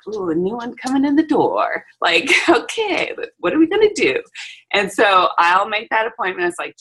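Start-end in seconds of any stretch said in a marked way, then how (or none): 0.1-4.2 excited. Retold or imitated. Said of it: "I'm like".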